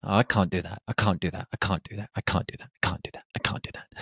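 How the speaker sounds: repeated refusal fading from plain to a whisper; panicked refusal. Retold or imitated. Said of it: "And I was like".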